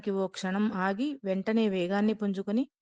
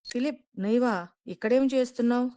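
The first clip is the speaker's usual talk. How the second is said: lightly amused, higher and quicker; laughing question; 4 semitones higher than usual. Acted. Lieutenant greets his old friend, amused and quick. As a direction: ask it with a laugh in the voice. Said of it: "నవ్వుతూ అడిగాడు".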